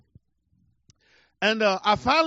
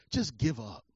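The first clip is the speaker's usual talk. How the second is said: defeated inner voice; 6 dB quieter than usual. Retold or imitated. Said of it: "So I thought to myself".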